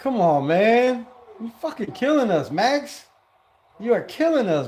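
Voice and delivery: fed-up fan ranting at his own defender; frustrated. Real, not acted. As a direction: chew out the player through the screen. Frustrated at player on field.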